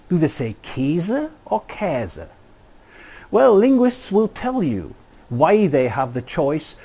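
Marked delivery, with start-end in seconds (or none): 0.6-2.3 Käse said slowly two different ways, as a German would; slow careful German Käse demo; two German pronunciations. Shown as a demonstration. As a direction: say Käse twice, slowly, contrasting the vowel each time. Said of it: "What do Germans say when they want to translate the word cheese".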